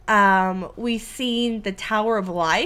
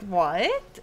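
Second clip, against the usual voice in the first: retold disbelief; 5 dB louder, much slower than usual. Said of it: "I was like".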